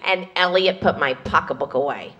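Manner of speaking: low, audible stage whisper; failed whisper. Retold or imitated. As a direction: pretend to whisper, but be overheard. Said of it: "Jews can't whisper".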